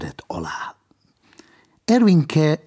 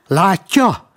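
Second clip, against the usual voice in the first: grumbling; 8 semitones higher, 6 dB louder than usual. A narrator's reading. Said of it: "mordult fel Ervinke".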